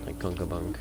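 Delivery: "Conkerbonk" with rounded O sounds; well-rounded O. Shown as a demonstration. Showing friend his own way, "Conkerbonk" with well-rounded O. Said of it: "well-rounded O".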